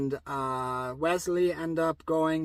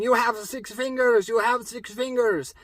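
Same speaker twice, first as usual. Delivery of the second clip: louder, higher accusing yell; 5 semitones higher, 3 dB louder than usual. Retold or imitated. Indigo to the six-fingered man mid sword fight, yelling. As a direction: shout the accusation at an old enemy. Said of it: "Indigo's yelling".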